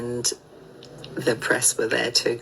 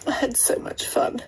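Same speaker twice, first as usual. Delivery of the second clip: whispered; 8 semitones higher than usual. Real, not acted. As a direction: hush it, almost to yourself. Wistful breakup update.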